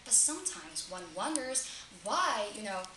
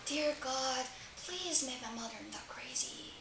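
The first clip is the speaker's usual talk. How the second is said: hushed plea, fading to a whisper; acted prayer that drops to a whisper; praying to God; 2 semitones higher, 5 dB quieter than usual. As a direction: plead softly as if in prayer. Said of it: "God's answer".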